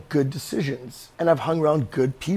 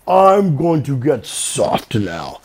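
slow, lightly voiced rock, a bit louder; 5 dB louder, much slower than usual. Rock speaking in a water analogy, slow and lightly voiced. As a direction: let the rock announce it lazily.

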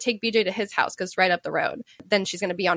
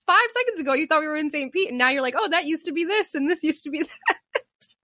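high incredulous teasing that breaks into laughter; mock her flip-flop, cracking up by the end; laughing at her; 6 semitones higher than usual. Daughter retelling how she laughed at mom, amused disbelief. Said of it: "I start laughing at her".

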